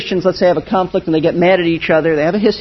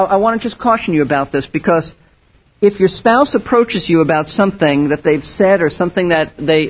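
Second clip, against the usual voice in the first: ordinary talk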